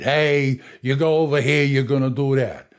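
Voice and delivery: lightly voiced Italian accent; a hint of a Chico Marx Italian accent. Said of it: "like Chico Marx. He sounds like this".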